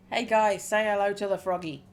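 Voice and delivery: booming shout across the bar; loud call to the group. Acted. Biker owner hollers to his club, a loud teasing shout. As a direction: call out over the crowd, teasing.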